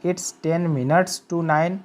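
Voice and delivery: each word drawn out for learners; very slow model sentence. Shown as a demonstration. Teacher showing students how to say the time, very slow. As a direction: dictate it word by word, very slowly. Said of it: "कह सकते हैं".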